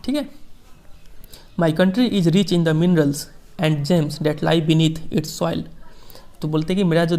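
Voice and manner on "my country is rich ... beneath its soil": slow, measured reading of a famous speech; formal speech reading. Acted. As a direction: read each phrase slowly, like quoting a statesman. Teacher reads Mandela speech slowly. (धीमा, गंभीर भाषण पाठ)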